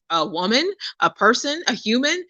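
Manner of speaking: rising, questioning list of answers; pointed uptalk. Retold or imitated. Friend answering a nosy man's question, pointedly puzzled.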